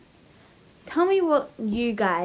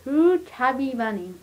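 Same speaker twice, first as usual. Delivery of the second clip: mouth full. Real, not acted. Two marshmallows in mouth.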